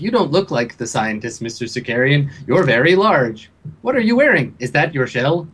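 lightly voiced curious talking octopus; computer voice box. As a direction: question a stranger with a hint of machine. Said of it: "the little voice box, like, he's just like".

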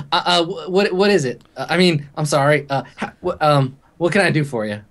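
a scared clerk tripping over her words; flustered clerk. Acted.

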